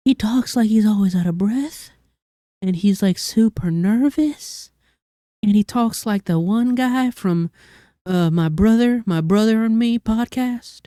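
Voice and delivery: breathy high-pitched impression with a southern twang; breathy, nervous villain. Shown as a demonstration. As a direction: talk like you're always out of breath and super nervous. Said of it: "It sounds really breathy and really high-pitched".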